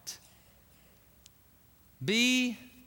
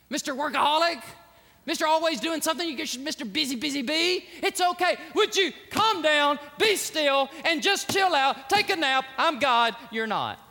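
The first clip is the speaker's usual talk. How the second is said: teasing rebuke; 4 semitones higher, 3 dB louder than usual. Retold or imitated. God scolding the busy man.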